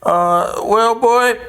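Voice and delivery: a hammed-up little schemer spotting his target; mock Princip. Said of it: "and he said".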